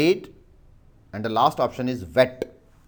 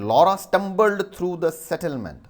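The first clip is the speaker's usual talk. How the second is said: dictation read; 6 semitones higher, 4 dB louder than usual. Shown as a demonstration. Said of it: "I repeat the sentence".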